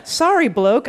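lightly put-on Australian accent; a hint of mock Australian. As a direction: read it with an attempted Australian accent. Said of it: "How did I do with that, Laura?".

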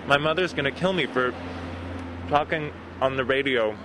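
talking through a mouthful of food; words round a bite of food; mouth full. Real, not acted. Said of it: "Mouth full?".

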